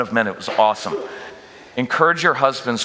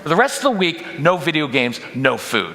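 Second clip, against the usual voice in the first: a dad yelling a grounding at his son; angry punishment; 4 semitones higher than usual. Acted. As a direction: bark out the punishment. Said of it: "I just go on and on".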